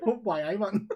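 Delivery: mock Newcastle catchphrase in Geordie; lightly hammed Geordie accent; put-on Geordie accent. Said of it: "Should have added pet on the end".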